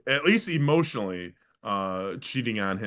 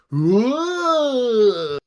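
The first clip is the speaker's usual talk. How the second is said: high loud yelp of surprise; startled whoa; 11 semitones higher, 6 dB louder than usual. Retold or imitated. The boy slipping on a baseball, a high loud whoa. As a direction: cry out as your feet slip. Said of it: "And he's like".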